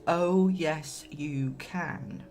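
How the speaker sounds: hammed-up panto call-back; pantomime voice. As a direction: ham it up like a panto dame. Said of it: "I sound a bit like a pantomime now".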